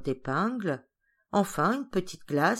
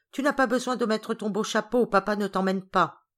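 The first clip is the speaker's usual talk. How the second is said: raised, higher voice, mildly calling; 3 semitones higher than usual. Acted. Georges telling Geneviève she stays behind, calling out. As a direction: call the news across to her. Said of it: "lui cria-t-il".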